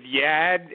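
New England YAD, with the R dropped; imitated New England accent. Mimicking Flash from New England, YAD with no R. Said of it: "saying Yad and Kai".

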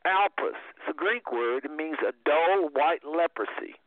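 slow, measured reading of a definition; careful, spaced-out reading; reading aloud. Acted. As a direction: read it out deliberately, phrase by phrase. Reads the definition one more time.

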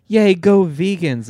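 high, slow mock cheering; hammed-up fan cheer. People cheering the vegan win, mocked. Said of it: "a lot of people were like".

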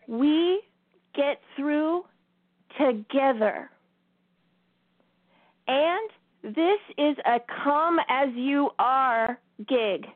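slow, drawn-out inspirational message; slow uplifting address. Acted. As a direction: tell them slowly that all are welcome.

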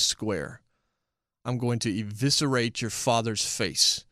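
soft and unhurried, deadly calm menace; measured menace. Retold or imitated. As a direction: lay out each threat evenly like it means nothing. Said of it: "at a very measured pace".

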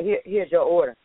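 curt, dismissive server; nasty. Shown as a demonstration. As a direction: shove the order at them rudely. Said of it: "I can serve you this food in a nasty way".

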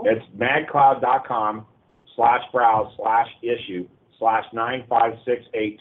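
slow, spelled-out web address; slow careful dictation. Shown as a demonstration. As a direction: read the address slowly and clearly. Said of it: "No, slash i".

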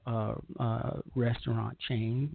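normal talking voice

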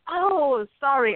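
a sly, hammed-up oops; light cat voice faking regret; mock apology. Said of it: "And they says".

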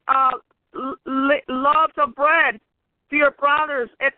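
steady storytelling read of scripture; Bible story reading. Acted. Preacher reading scripture to the congregation, storytelling.

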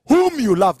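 "Whom you love" with weight on "Whom"; emphatic stress. Shown as a demonstration. God naming Abraham's son, emphatic "Whom you love". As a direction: lean on "Whom", then let "you love" fall. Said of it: "I always like to emphasize".

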